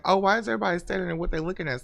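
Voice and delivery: wondering aloud at double speed; retold puzzled question. Recalling walking in on a crowd staring, puzzled. Voicing own past curious reaction.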